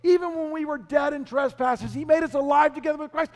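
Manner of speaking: high, hurried recital; Paul dictating excitedly. Acted. Paul reciting to a scribe from jail, high excited dictation. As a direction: recite in a rising rush, lightly acted. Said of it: "he's reciting this to somebody to write down".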